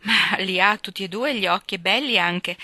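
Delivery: lightly voiced spirited girl. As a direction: snap back in defence of a friend. Narrator voicing Joe.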